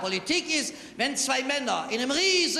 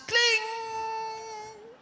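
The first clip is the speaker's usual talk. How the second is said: high, long ringing "kling"; imitated glass clink; 11 semitones higher than usual. Spoon accidentally hits the wine glass, high sustained chime. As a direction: ring out high like a struck glass.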